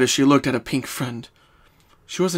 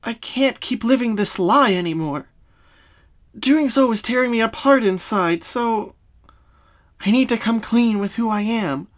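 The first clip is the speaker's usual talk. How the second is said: Pinkie's voice; 9 semitones higher, 4 dB louder than usual. Acted. Pinkie explaining her childhood trauma to Twilight, sad.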